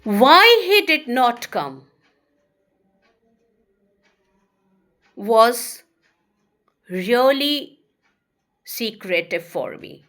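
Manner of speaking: slow spaced teacher dictation. Shown as a demonstration. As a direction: dictate it piece by piece. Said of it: "give you another examples".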